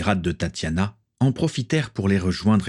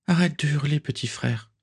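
weak smile; 7 semitones higher than usual. Acted. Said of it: "sourit difficilement Swazik".

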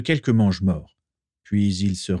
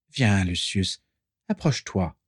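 Voldemort voice. A narrator's reading.

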